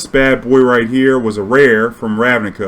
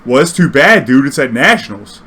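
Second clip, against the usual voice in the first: strict; 3 semitones higher, 6 dB louder than usual. Retold or imitated. Voicing strict opponent.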